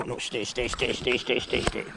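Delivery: softly, stay, stay; soft command. Real, not acted. Holding animals back softly.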